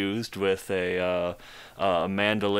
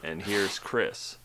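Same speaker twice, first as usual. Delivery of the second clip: monotone family guy voices; 4 dB quieter than usual. Acted. To friends, mocking Family Guy voices in deadpan monotone. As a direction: read each name with no life at all. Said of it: "monotone delivery".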